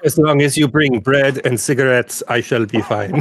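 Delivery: lightly put-on French accent; French Shrek. French ogre asking for bread and cigarettes, mock French accent. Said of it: "French Shrek".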